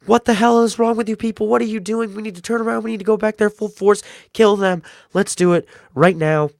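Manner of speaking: high, loud furious yell at the group; mock furious governor outburst. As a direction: rage at them to turn back and kill. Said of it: "gets out, and he's like".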